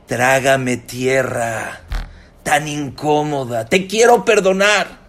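slow and heavy, building to a loud high cry; anguished. Acted. Hurt woman recalling her shame to him, anguished build to a shout. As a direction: relive the embarrassment, then burst out.

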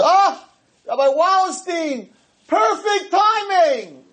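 high, drawn-out eager greeting; imitating an overeager guy spotting the rabbi; mock delighted welcome; excited greeting.

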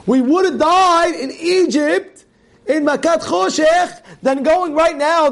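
high, slow whining protest; complaining Israelites. Retold or imitated. Israelites at the sea protesting to Moses, slow high whine. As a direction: whine that you'd rather have died. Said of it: "And they said".

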